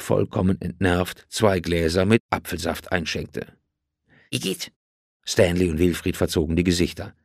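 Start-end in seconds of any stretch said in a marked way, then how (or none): 4.3-4.7 disgusted. Acted. Boys disgusted by juice.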